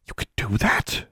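slow, astonished whisper; hushed disbelief. A narrator's reading. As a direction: whisper the question in amazement. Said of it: "she whispered".

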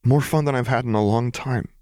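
giddy delight. A narrator's reading. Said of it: "Lux chuckled".

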